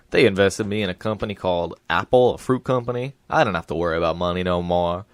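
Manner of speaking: simple-minded Southern recollection; Forrest Gump. Acted. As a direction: recount it with a simpleton's earnest lilt. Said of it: "similar in Forrest Gump One".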